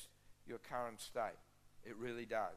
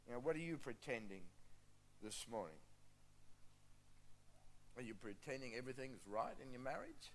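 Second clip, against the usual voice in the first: gentle appeal; 5 dB quieter than usual. Real, not acted. Preacher asking the congregation what they are pretending, gently. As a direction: invite quiet soul-searching, leaving long pauses.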